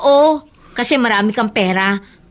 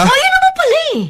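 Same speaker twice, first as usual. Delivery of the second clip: sarcastic retort; much faster than usual. Acted. Sibling quarrel over loyalty.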